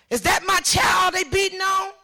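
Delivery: high, urgent re-enacted cry; alarmed demand. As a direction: call out as an alarmed mother. Mother demanding at police desk.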